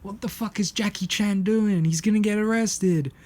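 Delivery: high-pitched whiny imitation of crying; mock crying. Crying Peter watching Jackie Chan attack, mock distress. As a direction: play a distraught friend, voice pushed up high. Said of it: "He's fucking crying".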